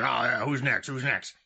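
gravel-voiced cigar-chomping producer; lightly rasped impatient boss; gruff producer voice. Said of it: "You have a gruff voice".

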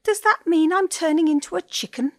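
worried penguin. A narrator's reading. Penguin panics over diagnosis.

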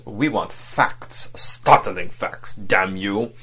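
slow, hard-pressed words, restrained fury; ferocious discretion. Acted. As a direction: drive each word into his face. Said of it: "with a sort of ferocious discretion".

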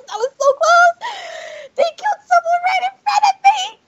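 high shouting shock; terrified horror victim. Real, not acted. Near miss with killer.

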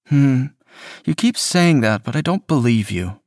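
sugary guilt-trip, smooth and needling; manipulative boyfriend. A narrator's reading. Andrew doubts Kaz.

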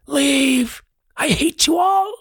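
high, wailing ghost voice; hollow ethereal ghost. Acted. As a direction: cry out as a hostile spirit. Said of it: "says in a hollow, ethereal voice".

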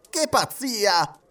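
high, drawn-out outburst; exasperated exclamation. A narrator's reading. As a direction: exclaim it slowly, in disbelief. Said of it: "esclamò Andrew Stewart". (esclamazione esasperata)

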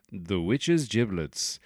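drawn-out gig announcer billing; punk band announcement. Pretend. Host bills an imaginary punk band, mock announcer. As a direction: announce the band name slowly, with relish. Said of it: "good name for a punk band".

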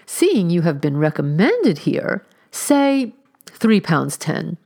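pushy, magnanimous landlady, slowing on the offer; aggressive generosity. Acted. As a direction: press the bargain like a grand favour. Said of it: "took to itself the note of aggressive generosity".

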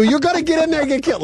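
put-on high, fast irritated kid voice; mimicking his kids. Dad voicing irritated sons.

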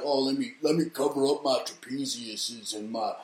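mocking Michelle Obama. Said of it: "It's always like".

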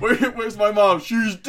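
a hammed-up shouted exchange; mock shouting. Spoofing the film with the co-host, a mock shout. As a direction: yell it like a cheap melodrama. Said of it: "acting a spoof scene with co-host".

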